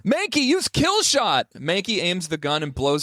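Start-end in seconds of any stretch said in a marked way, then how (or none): 0.0-1.5 high, slow called command; battle command. Acted. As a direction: bark out the attack order. Gym leader commands attack.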